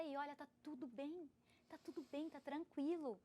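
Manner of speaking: soft, gentle comfort; soothing reassurance. Retold or imitated. Woman to her younger self, tender and hushed. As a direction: reassure a frightened child softly.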